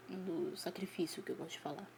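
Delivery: hushed ominous whisper. Acted. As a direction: drop to a secret whisper. Dramatic hushed naming of sacrifice.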